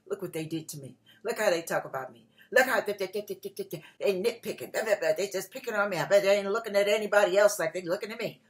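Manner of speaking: mock self-pitying grumble, fast and low; whiny complaint. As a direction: whine like someone feeling picked on.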